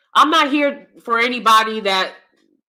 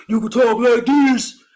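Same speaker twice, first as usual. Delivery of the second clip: put-on smooth voice; slower than usual. Shown as a demonstration.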